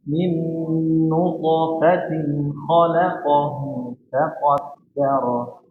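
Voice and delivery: drawn-out chanted verse; slow Quran recitation. Shown as a demonstration. Teacher models the verse for the pupil, slow chant. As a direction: chant it slowly with tajwid. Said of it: "Coba ini".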